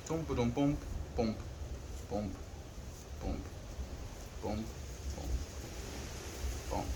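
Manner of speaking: soft little "tum, pa-dum, pum"; quiet spaced-out pums to oneself; absent-minded, quiet vocal drumbeat; idle pum-pum noises. Real, not acted. Hums to self while busy.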